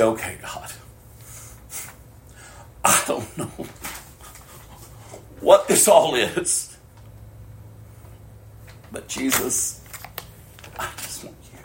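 soft whispered surrender; whispered prayer. Retold or imitated. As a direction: pray it quietly, broken open.

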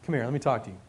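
a secretive murmur to a friend; hushed private aside. Retold or imitated. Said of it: "He does this privately".

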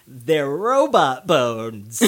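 slow, drawn-out nasal imitation; imitated cartoon scientist, slightly nasal and slow; nasally character voice. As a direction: stretch it out through the nose. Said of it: "like, more nasally".

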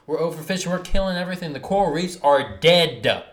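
heated rant, rising loud; pushing harder as the anger builds; fired-up rant about the planet. Real, not acted. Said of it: "this fires me up, dude".

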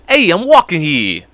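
put-on Italian-American wise guy voice; Italian guy accent. Retelling pool league clowning, Italian dude voice. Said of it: "straight to this Italian dude's voice".

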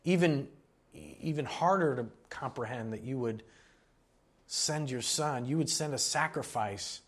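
earnest, projected prayer with pauses; public prayer. Real, not acted. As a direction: pray aloud for the congregation, phrase by phrase. Leads closing prayer.

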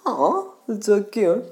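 high, loud, stretched-out cooing; gushing girl. Retold or imitated. Friend girl cooing over even a gutter pig, gushing. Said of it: "she'll say".

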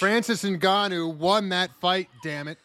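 put-on British accent on a famous boxer's voice; British Mike Tyson. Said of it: "Just imagine British Mike Tyson".

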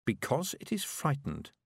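distant, hushed ghostly voice; a memory speaking from far away; eerie memory voice. A narrator's reading. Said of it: "a memory said".

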